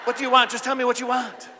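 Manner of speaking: loud, high, frustrated demand; exasperated shout. Acted. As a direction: bark out what do you want. Confused husband gets exasperated.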